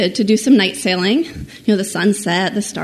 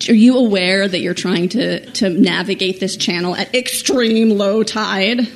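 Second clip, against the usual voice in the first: a touch of condescension, slightly raised; condescending. Retold or imitated. Tow operator talking down to the stranded couple, mildly condescending. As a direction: talk down to them politely. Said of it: "very helpful and not at all condescending man says".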